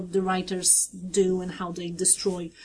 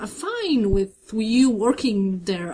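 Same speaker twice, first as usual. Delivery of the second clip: covering a freak-out; 4 semitones higher than usual. Retold or imitated. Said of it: "very guy, like, freak out".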